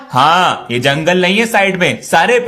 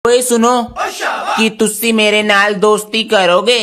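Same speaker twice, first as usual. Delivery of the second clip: put-on Punjabi accent; slower than usual. Sardar boy, Punjabi speech.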